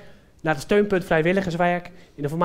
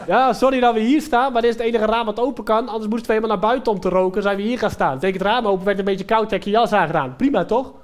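apologetic smoker; 2 semitones higher, 4 dB louder than usual. Acted. Smoker excuses taking the windowsill and jacket, casual excuse. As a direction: rattle off a hint of a cheeky smoker.

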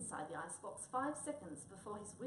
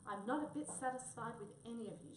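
shouting; 4 semitones higher, 4 dB louder than usual. Acted. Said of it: "shouted the headman".

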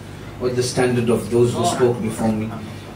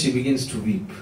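softer, holding back tears; choked up; 6 dB quieter than usual. Real, not acted. Preacher retelling Zainab's grief, voice catching with real emotion. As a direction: let the words sink as grief catches. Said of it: "I just find it difficult sometimes".

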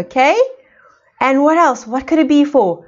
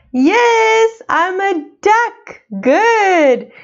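excited praise; 7 semitones higher, much slower than usual. Real, not acted. Excited answer to child.

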